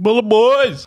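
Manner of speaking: shrill, very high shouting. Calling out the podcast name at the start of an episode: yelling. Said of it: "Why am I yelling?".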